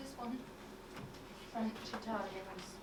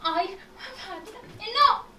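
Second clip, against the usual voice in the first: protesting shout; 5 semitones higher, 5 dB louder, slower than usual. Acted. Pupil refuses the lesson.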